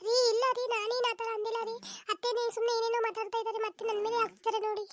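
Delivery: high, protesting voice; pleading denial. Acted. Wife defends herself to husband against his mother, pleading.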